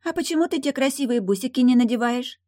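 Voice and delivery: put-on high curious child voice; little girl voice.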